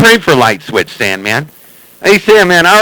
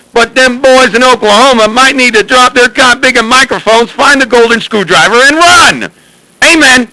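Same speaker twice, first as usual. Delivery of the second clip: mock prayer; 4 semitones higher than usual. Jokingly praying over the CB for Sandman, mock preacher. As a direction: preach it over the radio like a jokey revival. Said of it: "Oh, man, we should pray".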